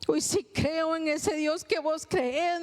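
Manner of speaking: slow, halting words of a mother who finally believes; slow, moved confession. Retold or imitated. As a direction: let each word land slowly. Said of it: "me dice".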